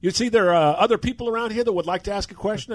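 imitating a testy manager putting a reporter in his place; irritated scolding. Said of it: "he goes".

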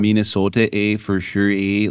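a touch of Minnesota accent; playful hint of Minnesota accent. Shown as a demonstration. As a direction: slip lightly into a Minnesotan accent. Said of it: "American accents".

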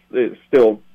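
halting, breathless phrases; short of breath. Real, not acted. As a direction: gasp the words out in short bursts. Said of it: "I'm still just a little bit short of breath".

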